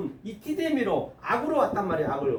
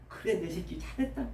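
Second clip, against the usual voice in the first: softly spoken fatherly approval; tender reassurance; 7 dB quieter than usual. Acted. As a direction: quietly comfort your own child, acted. Lord tenderly reassuring fallen disciple. (다독이듯 나직한 칭찬)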